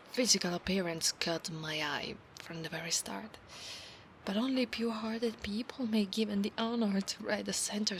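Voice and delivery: hushed whisper. Acted. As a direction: whisper the promise close to his ear. Whispered roleplay.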